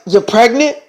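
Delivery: mildly startled question; a touch of incredulity; surprised echo. Acted. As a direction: echo the news in disbelief. Team echoes the news, startled.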